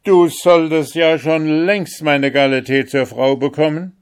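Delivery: high, loud, delighted exclamation; overjoyed. Acted. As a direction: burst out with joy as the old emperor. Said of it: "rief der alte Kaiser voll Freuden".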